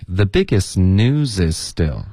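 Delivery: slow "the biggest news is still", words run together; linked model reading. Shown as a demonstration. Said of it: "按照这个实际音标的这个方式练习".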